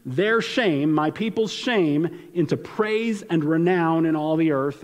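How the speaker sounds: slow, formal decree; solemn slow reading of God's decree; legal proclamation. Acted. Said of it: "like a legal proclamation".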